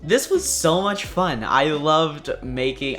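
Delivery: bright, slow and smiling. Real, not acted. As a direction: let the grin come through the words. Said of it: "hear the smile in my voice".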